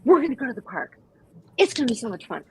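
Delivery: high, bubbly voice hyping the dog; excited owner. Retold or imitated. Owner hyping up her dog before the park, excited high voice. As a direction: gush to the dog like a hyped-up owner. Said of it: "It's like".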